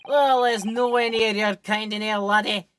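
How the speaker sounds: loud, dismissive Scottish governor; gruff Scottish accent. Acted. Governor turning away the visitors, loud Scottish accent. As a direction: brush them off in a Scottish brogue. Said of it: "I'll just go general Scottish".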